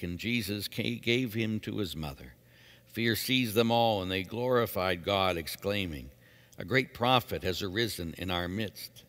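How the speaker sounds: measured, formal scripture narration; Gospel proclamation. Acted. Reader proclaims Saint Luke's Gospel to brothers and sisters, measured liturgical reading. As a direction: proclaim it in clear, separated phrases.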